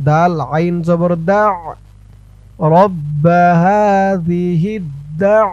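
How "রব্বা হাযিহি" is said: slow chant of রব্বা হাযিহি; slow recitation. Shown as a demonstration. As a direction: draw out হাযিহি melodically. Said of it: "তাসদিদ ওলা দালকে ধরবে". (ধীরে সুরে রব্বা হাযিহি)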